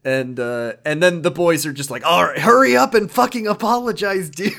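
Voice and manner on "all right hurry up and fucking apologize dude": high, loud, laughing gang scolding; mocking thugs. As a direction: laugh at him and push him to apologise.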